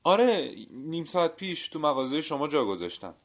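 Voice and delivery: high, loud, eager confirmation; urgent insistence. A narrator's reading. Man telling the butcher he left it there, urgent. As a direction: insist urgently, pitch well up.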